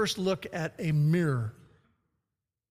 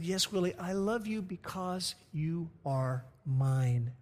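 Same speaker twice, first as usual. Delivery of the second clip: soft, slow, loving reassurance; tender mother; 4 dB quieter, slower than usual. Acted. Mother tells her scarred son she loves him, tender and slow. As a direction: let it land gently, like a mother.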